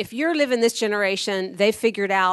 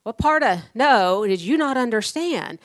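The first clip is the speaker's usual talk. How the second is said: higher, firm "Sir, what part of no" challenge; stern rebuke pitched higher; sharp challenge; 4 semitones higher than usual. Retold or imitated. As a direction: confront the pushy salesman. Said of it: "I said".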